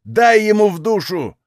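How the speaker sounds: a shout from behind a door; muffled shout. Acted. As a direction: call out roughly, half-muffled. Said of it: "приглушённый крик".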